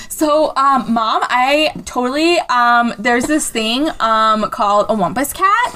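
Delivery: put-on halting kid explaining, full of ums; a hint of an earnest child; lightly voiced twelve-year-old. Kid telling mom about the cat, hesitant child voice. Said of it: "This was written by a twelve-year-old".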